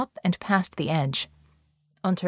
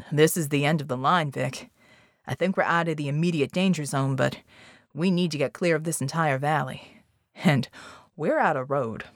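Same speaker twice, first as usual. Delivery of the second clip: a hint of a low-voiced teammate; lightly voiced team member; 4 semitones lower than usual. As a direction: lightly play a teammate sizing up the situation.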